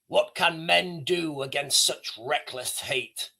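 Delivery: despairing king. Retold or imitated. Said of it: "he says".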